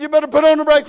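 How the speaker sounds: playful warning. Retold or imitated. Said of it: "I said".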